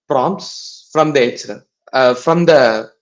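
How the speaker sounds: stumbling stutter over words. Real, not acted. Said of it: "I'm stuttering".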